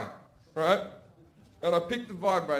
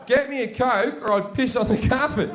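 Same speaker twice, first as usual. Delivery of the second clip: brother's louder threat; 6 semitones higher, 5 dB louder than usual. Retold or imitated. Brother repeats his threat louder.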